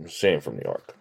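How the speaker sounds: soft low whisper; hushed under the breath. Retold or imitated. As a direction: lean in and murmur it low. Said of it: "she whispers".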